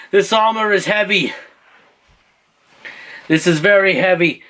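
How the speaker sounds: lightly acted struggle in armor; burdened young king. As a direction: complain under a heavy load. New king struggles under armor.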